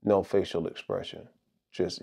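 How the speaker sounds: mock the copycat creators with no expression; expressionless creator voice. Shown as a demonstration. Imitating YouTube creators who talk with no expression, low and soft. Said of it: "talking like this".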